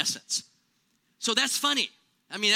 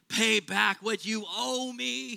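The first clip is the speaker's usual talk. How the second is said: slow, deliberate demand for repayment; the servant demands his money back, slowly and firmly; stern demand; slower than usual. Acted. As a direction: lean on each word like a creditor. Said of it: "he demanded".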